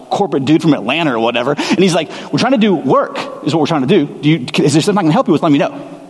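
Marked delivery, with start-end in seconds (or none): 2.3-6.0 quick, offhand brush-off; lightly played flippant coworker, a bit fast; dismissive and flippant. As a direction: wave the visitor away without caring who he is. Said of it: "Very dismissive and very flippant".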